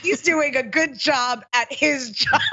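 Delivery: laughing through the words; chuckling mid-sentence. Real, not acted. Admits praising a rival.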